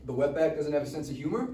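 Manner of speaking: jeering insult while wrestling; mocking taunt. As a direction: needle him mid-scuffle. Boys fighting, mocking taunt.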